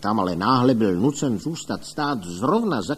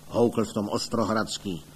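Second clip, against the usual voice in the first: ordinary delivery, nothing marked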